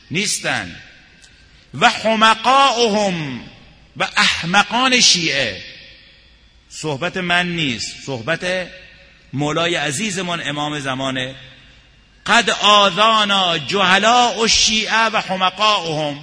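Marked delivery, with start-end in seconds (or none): 1.7-5.6 high, loud, slow cry; rising outcry. Acted. Preacher cries out against foolish followers, high and loud. 12.3-16.2 loud, high preaching cry; preaching outcry. Acted. Preacher proclaims the Imam's complaint to the crowd, loud.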